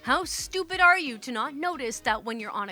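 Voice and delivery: mildly heated imagined tirade; acted angry rant. Clerk's unspoken answer to a rude customer, acted angry rant. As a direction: let loose the insult you held back. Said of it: "What I wanted to say".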